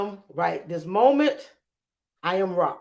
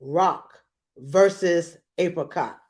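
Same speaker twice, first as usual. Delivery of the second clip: fight announcer; slower than usual. Acted. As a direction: announce it like a ring match. Announcing the battle.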